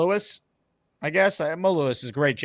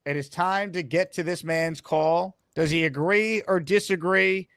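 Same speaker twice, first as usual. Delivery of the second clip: slow, drawn-out host introduction; mock-grand announcement, stretching the phrases; show announcer; 2 semitones higher, slower than usual. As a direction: build suspense for the next caller. Announces the next caller.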